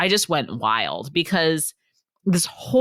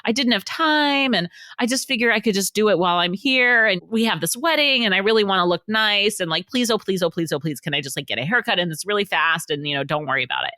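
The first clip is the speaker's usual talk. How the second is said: husband pleading; 5 semitones higher than usual. Retold or imitated. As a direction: beg like a sheepish husband. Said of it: "And he's like".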